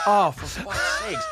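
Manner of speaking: exasperated groan. Retold or imitated. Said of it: "I go".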